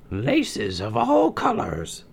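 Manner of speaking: high, slow crone voice; wheedling old hag; old crone murmur. Acted. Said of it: "murmured the wicked queen".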